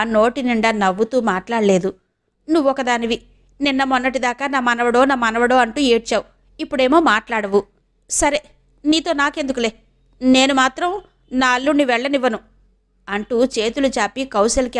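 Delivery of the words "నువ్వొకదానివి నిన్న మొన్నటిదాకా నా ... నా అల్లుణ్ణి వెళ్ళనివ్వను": lightly voiced grumbling aunt; a hint of huffy determination; reproachful aunt. (కొంచెం నిష్ఠూరంగా మాట్లాడే అత్త)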